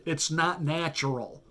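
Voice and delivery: slow, weight landing hard on "natural"; emphasis on natural. Real, not acted. Commentator to viewers, stressing "natural" slowly. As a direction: lean into "natural" and drag it out. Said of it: "Emphasis on the word natural".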